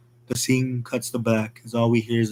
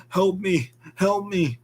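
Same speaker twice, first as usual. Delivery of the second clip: much higher panicked cries; cry for help; 7 semitones higher, slower than usual. Acted. Patient with a sliced eye crying for help, high panicked. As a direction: stumble in screaming for help. Wounded patient bursts through door.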